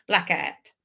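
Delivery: a hammed-up Australian Blackout, laughing at herself; bad Australian accent. Admitting the accent attempt, with a badly faked Australian accent. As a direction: Blackout drawn out with a flattened Australian vowel. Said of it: "Trying to do an Australian accent".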